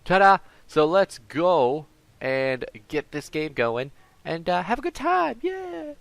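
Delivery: high, loud showman flourish; excited intro. Pretend. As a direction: announce it like a show host.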